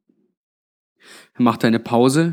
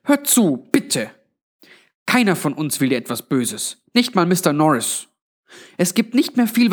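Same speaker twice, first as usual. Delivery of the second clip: higher-pitched grandmotherly appeal; lightly voiced Granny, pleading; 4 semitones higher than usual. (leicht gespielte Granny, eindringlich bittend)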